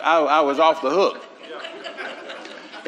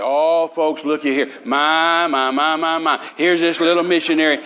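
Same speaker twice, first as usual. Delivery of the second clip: John Osteen. Retold or imitated. Preacher imitating pastor announcing a gift to the crowd, fussing showman. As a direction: lightly mimic a pastor making a big deal. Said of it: "that's exactly the way John was".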